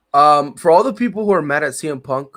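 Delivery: loud, cursing rant at the fans; angry outburst. Real, not acted. Host swearing at fans angry about CM Punk, loud and angry. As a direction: tell the haters off hard.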